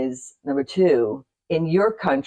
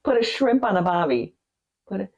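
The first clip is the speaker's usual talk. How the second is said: Australian accent attempt; 3 semitones higher than usual. Shown as a demonstration. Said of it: "I can't do it".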